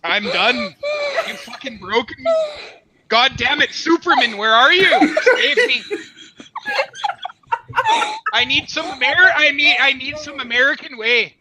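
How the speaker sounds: mock plea for rescue through real laughter; helpless laughter. Real, not acted. Streamer broken by the accent bit begs Superman, laughing. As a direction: laugh as you beg to be saved.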